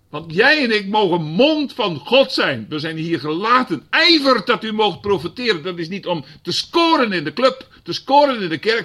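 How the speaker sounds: high, loud exhortation; fiery preaching. Real, not acted. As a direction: rouse the church to prophesy. Preaching at full force.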